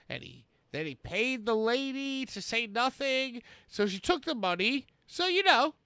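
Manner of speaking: theatrical quote reading with sudden punches; the speaker. Acted. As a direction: swell on key words, then drop away. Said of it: the speaker introduces himself.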